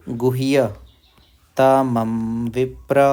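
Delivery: गुह्यतमं drawn out very slowly; slow recitation. Shown as a demonstration. Teacher intones the verse slowly for learners.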